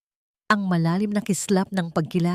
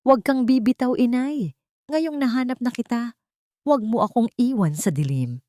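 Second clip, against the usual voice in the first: higher, broken pleading; 7 semitones higher than usual. A narrator's reading. Son begging his dying mother to stay, pleading. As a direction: beg her not to let go. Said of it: "basag at puno ng lumbay".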